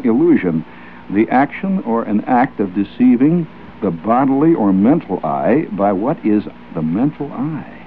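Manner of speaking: dictionary read, slowed. Shown as a demonstration. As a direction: read it out again, carefully. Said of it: "I will read this again".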